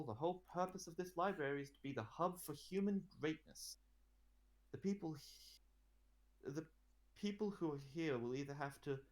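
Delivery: proud ruler lecturing her advisor; queen character voice. Acted. Queen tells Manetho her plans, lightly voiced and proud.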